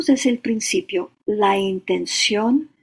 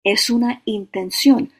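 intención leicht betont und etwas lauter; „intención“ deutlich betonen, Rest ruhig; stress on intención; 4 dB louder than usual. Shown as a demonstration. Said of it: "Por eso enfatizo la palabra intención".

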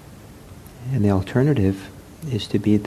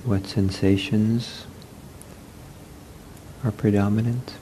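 unhurried meditation guidance with long pauses; guided meditation; 6 dB quieter than usual. Real, not acted. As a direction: guide them gently into the body, leaving space. Leads a seated meditation.

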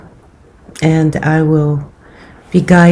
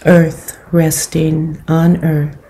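calm, unhurried meditation guidance with long pauses; guided meditation. Acted. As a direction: gently guide them into settling the body, leaving space between phrases.

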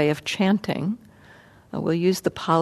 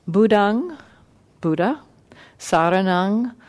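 one word at a time, each word separate; staccato. Shown as a demonstration. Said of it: "I'll do that one, uh, word at a time".

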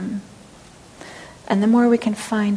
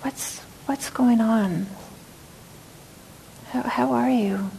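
voice of kindness; 3 semitones higher, 5 dB quieter than usual. Shown as a demonstration. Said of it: "So a voice of kindness and care".

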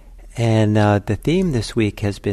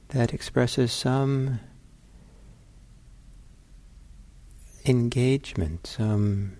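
unhurried meditation guidance with long pauses; guided meditation. Real, not acted. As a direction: ease them into the sitting, leaving space between phrases.

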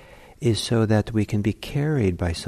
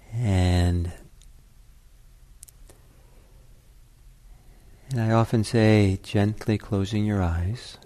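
unhurried meditation guidance with long pauses; gently paced meditation leader; guided meditation. Acted. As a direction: ease listeners into settling, leaving long silences. Begins leading the guided meditation.

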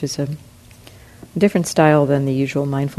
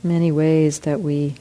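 guided meditation. Real, not acted. Teacher leads group through forgiveness practice, guided meditation. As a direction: ease them into reflection, pausing often.

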